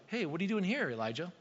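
breezy, offhand "Hey, what are you doing here" with nothing behind it; casual literal question. Shown as a demonstration. Preacher showing what God did not mean, offhand question. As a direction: toss it off like a passing greeting. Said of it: "asking maybe this literal question of".

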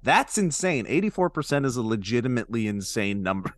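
upbeat sponsor read. Acted. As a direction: sell it like a podcast ad. Ad read continues.

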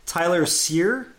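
"Sear" said like "seer"; slow, clear "Sear" with a long ee; pronunciation demo. Shown as a demonstration. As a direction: say "Tyler Sear" slowly, surname as SEER. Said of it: "pronounced S E E R".

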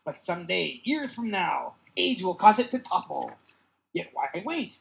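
slow, theatrical villain boast; villain monologue. Acted. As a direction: savor each menacing word. Villain explains time ray.

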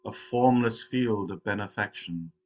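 measured, solemn recital of a verse; verse recitation. Real, not acted. Opening a meditation with the Verse of the Robe, recited. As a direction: recite it line by line, slowing into the close. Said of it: "reciting one of the Zen Buddhist".

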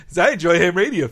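smug quick nerd brag, lightly voiced; self-satisfied. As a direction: rattle it off pleased with yourself. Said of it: "Ham's self-satisfied".

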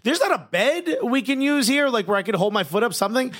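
incredulous. Retold or imitated. Retold disbelief at clinic.

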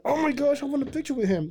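high-pitched gushing fan; acted-out fan excitement, voice way up; starstruck. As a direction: replay your giddy longing for a photo. Acts out starstruck fan wanting photo.

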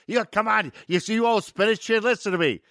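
high-pitched, exasperated prompting; impatient director. Retold or imitated. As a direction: imitate a director urging the line out of an actor. Director re-feeds forgotten line.

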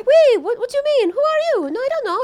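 squeaky startled innocent act; confused mock voice. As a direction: play her dazed and lost in Paris. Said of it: "And she's like".

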